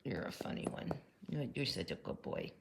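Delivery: soft whisper to the cat. Real, not acted. To her cat in her lap, a gentle whisper. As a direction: whisper so as not to disturb him.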